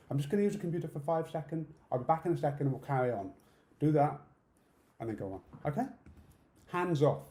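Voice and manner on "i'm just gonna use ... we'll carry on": demo line. Shown as a demonstration.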